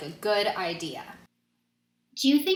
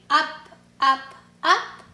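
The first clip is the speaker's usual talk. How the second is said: rising with each up; 5 semitones higher, 7 dB louder, slower than usual. A narrator's reading. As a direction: voice climbs higher on each up. Narrating the kids springing up.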